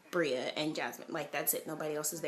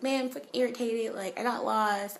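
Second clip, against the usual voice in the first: louder, venting frustration; irritated complaint; 6 semitones higher, 5 dB louder than usual. Retold or imitated. Telling her friend about getting lost, annoyed. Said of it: "And I was like".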